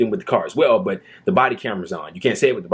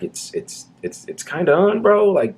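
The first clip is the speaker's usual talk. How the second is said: starts whispered, then higher, casual bro voice; imitating a cop; 8 semitones higher than usual. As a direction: play the cop hinting the camera is on. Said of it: "He's like".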